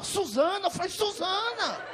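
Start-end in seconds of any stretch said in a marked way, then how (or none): 0.0-0.7 high, rising, lightly said name; acted name reveal. Woman showing him her ID, high rising voice. 0.9-1.8 high, drawn-out falling cry; acted echo of a name. Man reacting to her real name, high falling echo.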